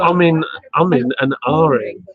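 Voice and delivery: "ahhing" with an open "ah", as "aring"; corrected pronunciation. Shown as a demonstration. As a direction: spell out "ahhing" as "ah-ring", not "oring". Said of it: "it's umming and ahhing".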